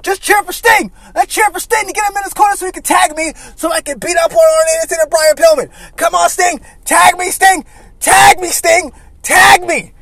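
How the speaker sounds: high, loud mock crowd-hype yell; hyping the crowd. Flair rallies the arena to cheer Sting in, yelling.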